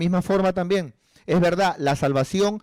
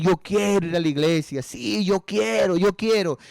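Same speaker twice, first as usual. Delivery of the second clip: mock eagerness; 3 semitones higher than usual. People professing they want church, mock eager. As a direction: imitate someone insisting they really want to.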